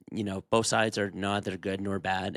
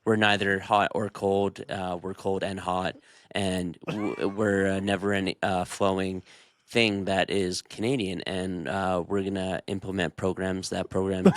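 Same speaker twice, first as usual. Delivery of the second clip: low, rambling evasive politician; mock politician answer; 4 semitones lower than usual. Answering a budget question as a vague politician. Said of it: "the budget, what about it are you doing?".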